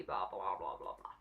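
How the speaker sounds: brushing off the movie, fading to a mumble; dismissive fade. Real, not acted. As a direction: let it die away dismissively. Dismissive trailing blah.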